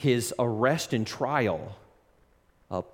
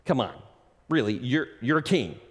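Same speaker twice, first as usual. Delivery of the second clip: repeated disbelief. Retold or imitated. Pilate pressing Jesus over and over, incredulous. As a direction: keep asking, unable to believe it. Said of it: "he keeps on asking this question".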